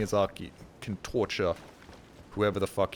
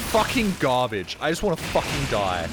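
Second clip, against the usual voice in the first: mock despair; 3 semitones higher, 5 dB louder than usual. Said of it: "You don't respond to somebody being like".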